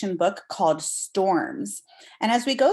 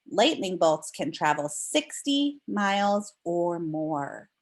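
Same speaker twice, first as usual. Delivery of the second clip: put-on reading to children. Teacher reads book aloud.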